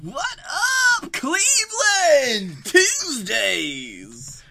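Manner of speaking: loud high party hype call; party hype man. Acted. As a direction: shout it to a club crowd. Mock party host shout.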